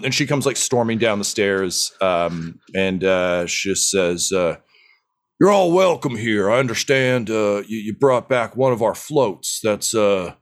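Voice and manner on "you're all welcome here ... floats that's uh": lightly voiced boisterous dwarf leader, welcoming; a hint of a proud dwarf boss greeting guests; hearty dwarf chief. Dwarf chief welcoming the party to her habitat, lightly voiced hearty. GM voices Keg Stand Kelly.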